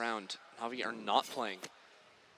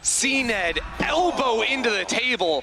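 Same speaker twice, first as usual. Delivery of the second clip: esports caster; 4 semitones higher than usual. Real, not acted. Hype caster play-by-play.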